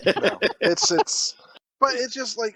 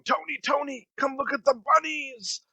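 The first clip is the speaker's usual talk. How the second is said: excited bunny call; 6 semitones higher than usual. Retold or imitated. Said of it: "he comes running out ... going".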